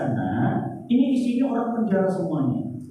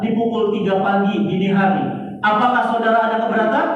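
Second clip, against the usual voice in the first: official verdict reading; 5 dB louder than usual. Retold or imitated. Official reads execution verdict.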